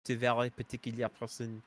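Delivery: exaggerated fake French accent, not accurate at all; bad French accent. Greeting a viewer in stream chat, in a hammed-up French accent. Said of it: "my horrible, uh, French accent that is not at all accurate".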